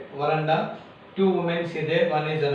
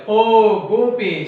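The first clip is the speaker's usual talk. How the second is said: a harsh, unpleasant mother's call, louder; grating voice; 5 semitones higher, 7 dB louder, slower than usual. A narrator's reading. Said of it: "she said in her grating voice".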